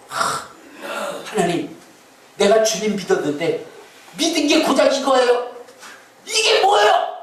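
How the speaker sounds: whiny complaint rising to a high protest; mock complaining believer. Believer whining at God, rising mock complaint. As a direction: play the grumbling sick believer.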